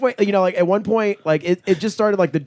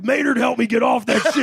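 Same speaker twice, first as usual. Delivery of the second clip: mock pleading fan; 5 semitones higher than usual. Mocking ex-addict fans.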